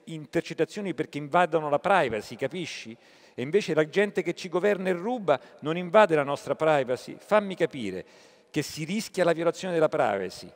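quoting a TV comic's outburst about wiretaps, mildly indignant; mildly indignant retelling. Retold or imitated. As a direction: retell her rant with mild indignation, not a full impression. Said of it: "lei esclamò".

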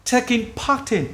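"Taking part in" with "part" running into "in"; linked words. Shown as a demonstration. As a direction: join "part in" into one unit. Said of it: "phải đọc nối vào nhau". (đọc nối "part in")

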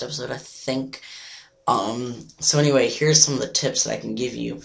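hoarse, nearly lost voice. Real, not acted. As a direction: talk through a lost voice. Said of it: "I just kinda, like, lost my voice".

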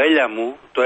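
mock Athenian caller, "έλα" turned into "έλια"; προφορά με ελαφρύ λάμδα. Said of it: "αυτή η προφορά". (μίμηση νότιας προφοράς με μαλακό λάμδα)

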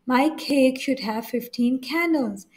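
very slow, every word spaced out; slow example reading. Shown as a demonstration. Teacher dictating an example sentence to students, very slow. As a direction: dictate it slowly for the class. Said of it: "teacher reads out example sentence".

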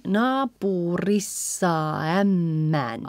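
naapurissa ämmän slow, final A running into Ä; slow model of linked naapurissa ämmän; vowels combined. Shown as a demonstration. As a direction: glide from naapurissa straight into ämmän. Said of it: "A and ä are combined".

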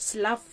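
"slaf" drawn out slowly with a clear F at the end; teacher isolating "slaf" so students hear the F; pronunciation demo. Shown as a demonstration. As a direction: sound out "slaf" slowly, landing on the F. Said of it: "ออกเสียง F F นะคะ".

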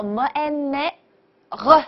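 么, 哎, 咩, then a uvular r on 呃; sounded out. Shown as a demonstration. Teacher breaks down the word for mother, sound by sound. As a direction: spell out 么哎咩 sound by sound, ending in throaty 呃. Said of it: "小舌音".

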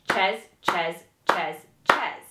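"Ches" once per beat, evenly; counting crotchets. Shown as a demonstration. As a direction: chant "Ches" steadily on each beat. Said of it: "every time you see a crotchet, it equals Ches".

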